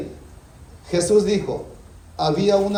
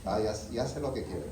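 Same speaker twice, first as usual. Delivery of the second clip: a knowing little laugh through the words; amused father who has caught on; knowing chuckle; 5 semitones lower, 4 dB quieter than usual. Retold or imitated. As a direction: laugh it off, you see right through him. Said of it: "Uno dice".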